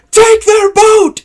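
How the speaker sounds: very high, slow, drawn-out shout; pirate battle shout. Acted. Simon ordering pirates to seize the boat, shouting. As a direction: bellow the order across the beach. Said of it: "Simon goes".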